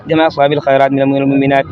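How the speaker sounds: usual speaking voice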